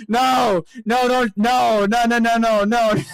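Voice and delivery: high, slow string of loud noes; mock horrified protest. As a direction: protest in hammed-up horror. Reacting in mock horror.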